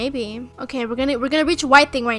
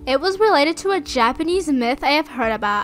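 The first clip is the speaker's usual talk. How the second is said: dramatic voiceover narration. Acted. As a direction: narrate it like a horror trailer. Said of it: "I'm a make voiceover".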